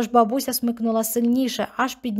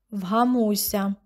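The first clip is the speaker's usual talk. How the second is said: icy; much slower than usual. Acted. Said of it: "Голос бабці зробився крижаним".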